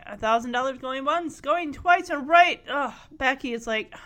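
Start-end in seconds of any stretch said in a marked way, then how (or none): 0.1-2.6 loud, rising auctioneer call. Retold or imitated. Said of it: "But Danny's like".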